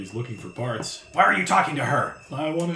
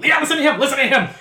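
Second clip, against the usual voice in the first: high squeaky agreeing; 13 semitones higher, 8 dB louder, faster than usual. Acted.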